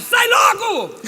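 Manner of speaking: high, loud comic bellow; retold yell. Impatient during the pastor's deliverance, retold yell. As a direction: burst out yelling, hammed-up impatience. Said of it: "Aí eu dei um berro".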